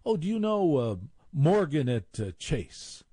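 high, hammed-up society chatter; posh preppy voice. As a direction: lift the Oh way up like a country-club snob. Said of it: "talking like they're sixty-five".

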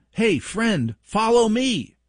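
put-on cheerful child beckoning friends; kid's friendly call. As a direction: sing it out like a cheery kid. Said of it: "I'm like".

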